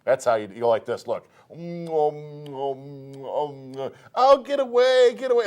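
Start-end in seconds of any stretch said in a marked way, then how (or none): 1.5-5.4 murmurs, then a high cry of get away; a lightly hammed woman giving in; mock swooning woman. Woman melting for the cowboy, murmuring then crying get away.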